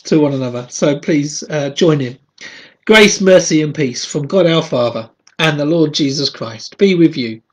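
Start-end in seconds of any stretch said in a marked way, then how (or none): 2.8-7.4 measured congregational blessing; formal call to prayer; liturgical greeting. Acted. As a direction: lead the spoken responses. Leads opening responses.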